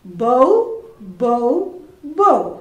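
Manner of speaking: short barking bow-wows; dog bark. Shown as a demonstration. Teacher shows class the dog's sound, barking. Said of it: "എങ്ങനെയാണ് sound ഉണ്ടാക്കുക?".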